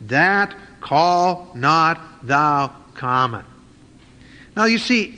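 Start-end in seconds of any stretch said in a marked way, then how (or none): 0.1-3.4 very slow solemn divine voice; slow, weighty voice of God rebuking Peter; voice from heaven. Retold or imitated. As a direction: pronounce it slowly like God's command. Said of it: "the voice spoke unto him".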